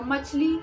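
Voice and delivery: "मछली" with the ई leaned on and held; teacher showing the stress on ई in "मछली"; stressed long i. Shown as a demonstration. Hindi teacher shows pupils the long ई, stressed. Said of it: "इसमें मछली हम ई पे ज़्यादा जोर दे रहे हैं".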